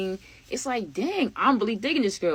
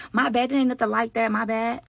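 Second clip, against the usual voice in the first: scared apology; 4 semitones higher than usual. Retold or imitated. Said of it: "the other girl seemed scared".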